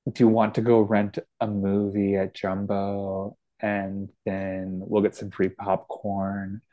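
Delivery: East Coast Canadian accent; maritime Canadian accent. Shown as a demonstration. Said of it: "Can you do a maritime accent?".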